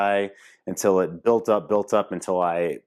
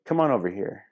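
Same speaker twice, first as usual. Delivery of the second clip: inviting call; faster than usual. Shown as a demonstration. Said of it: "give her one of those".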